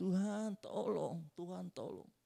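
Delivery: desperate, high, slow pleading cry.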